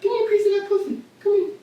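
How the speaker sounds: sleazy catcaller. Pretend. Acted crude pickup line.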